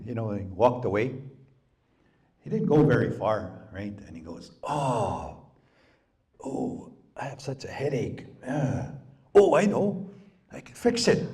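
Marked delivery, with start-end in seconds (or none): 4.6-11.3 from aching moan to a much higher eager squeak; groaning then perky. Retold or imitated. Wysaki-chan complains of headache.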